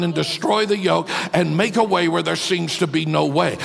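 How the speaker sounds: firm declaring prayer, each phrase stated boldly; sample prayer. Shown as a demonstration. Pastor demonstrating a short prayer to the congregation, firm and declaring. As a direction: show them a simple prayer said with conviction. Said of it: "why can't I just say".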